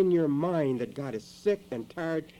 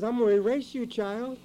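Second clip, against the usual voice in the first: booming voice of God; 7 semitones higher, 4 dB louder than usual. Acted. Preacher voices God's threat.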